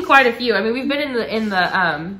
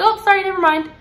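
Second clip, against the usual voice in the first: imitating sister; 10 semitones higher, 5 dB louder than usual. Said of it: "And she's like".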